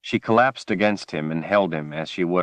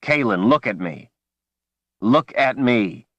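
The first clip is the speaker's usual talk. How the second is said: frantic call; 4 semitones higher than usual. Acted. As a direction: call her back from panic.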